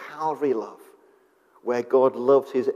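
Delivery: voiceless hushed reveal; whisper. Acted. Preacher whispering the reveal of Calvary love to friends.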